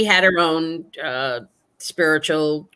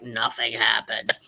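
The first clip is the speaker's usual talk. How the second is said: breathy whispered aside, lower and softer; 7 semitones lower, 7 dB quieter, slower than usual. Real, not acted. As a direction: drop to a whisper for the letdown. Deflating letdown about ghost tour.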